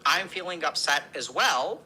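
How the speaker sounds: slow, calm, level script; steady them with slow calm words; calm validating demo. Shown as a demonstration. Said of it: "we're gonna say".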